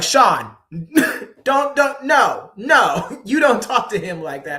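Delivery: mock-frantic scolding to stop it; laughing as he imitates the teachers cutting in; alarmed teachers. Teachers rushing in to stop him.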